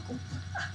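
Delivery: breathy, voiceless chuckle; quiet laugh slipping out; soft laugh. Real, not acted. Gamer caught off guard, soft laugh.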